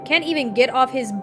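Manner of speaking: exasperated question, rising sharply at the end; indignant disbelief. Real, not acted. Reader scoffs at him not getting up, indignant. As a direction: react in real disbelief, pitch lifting on the last words. Reacts to character not answering door.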